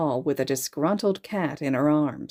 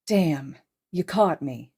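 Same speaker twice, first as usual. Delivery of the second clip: amused; slower than usual. Acted. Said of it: "a hint of amusement in his voice".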